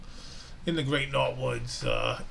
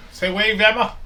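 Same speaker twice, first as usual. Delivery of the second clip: calling from far away; 6 semitones higher, 6 dB louder than usual. Real, not acted. Calling to his granddaughter.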